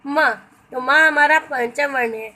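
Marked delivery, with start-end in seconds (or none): 0.0-0.3 each letter drawn out slowly and separately; slow letter recital. Shown as a demonstration. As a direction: sound the letters one by one, slowly. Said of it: "प वर्ग में देखिए". (वर्णों को धीरे-धीरे अलग करके बोलना)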